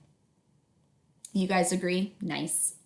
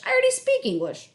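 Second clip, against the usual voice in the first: put-on teen sass; 5 dB louder than usual. Teen brother jokes.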